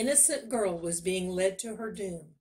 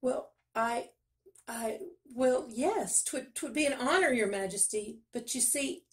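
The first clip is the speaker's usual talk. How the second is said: stammering, pitched up and hesitant; flustered stammer; 5 semitones higher than usual. Acted. Miller stammering as the king takes his daughter, higher. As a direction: trip over every word in alarm. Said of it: "The miller gasped".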